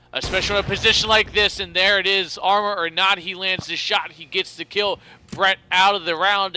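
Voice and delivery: live play-by-play, rising with action; esports caster. Real, not acted. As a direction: call the round like a caster.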